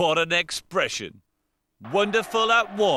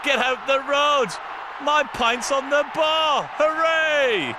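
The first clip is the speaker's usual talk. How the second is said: eager player voice; 9 semitones higher than usual. Pretend. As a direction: rush for the bar like he's gasping for a pint. Voicing Leon rushing for a pint.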